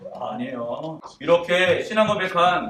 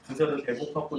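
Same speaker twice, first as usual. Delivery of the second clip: comforting; 2 semitones lower, 5 dB quieter than usual. Pretend. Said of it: "위로하시면서".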